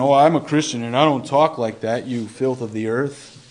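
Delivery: a lightly voiced sanctimonious sneer; mock self-righteous. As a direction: play a smug believer looking down on sinners. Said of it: "all self-righteous".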